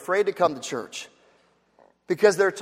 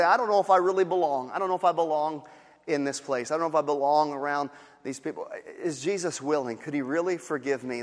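quiet, lower, unsure inner voice; doubtful whisper-soft; 6 semitones lower, 7 dB quieter than usual. Acted. Newcomer wondering if they belong, softly doubting. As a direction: murmur the doubt to yourself.

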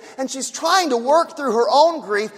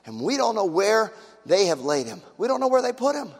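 quiet, grief-heavy retelling of Mary's words; grieving; 3 semitones lower, 4 dB quieter than usual. Retold or imitated. Preacher voicing Mary's grief at the empty tomb, subdued and sorrowful. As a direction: let the grief pull the voice down and soft. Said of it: "you can hear the anger and the grief".

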